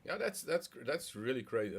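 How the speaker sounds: cutting out like a weak mic; bad connection. Real, not acted. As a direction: voice breaking up, faint and distant. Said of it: "Your voice broke up there".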